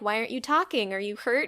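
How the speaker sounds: soft, hushed motherly concern; gently concerned mom. Retold or imitated. Mom checking on her son by phone, gently concerned. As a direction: ask it quietly, like a worried mom.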